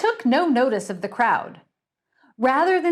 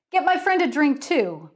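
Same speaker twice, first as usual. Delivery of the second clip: higher, bossy order; commanding; 6 semitones higher than usual. Acted. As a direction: give an order to the barman. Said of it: "Bertie commanded".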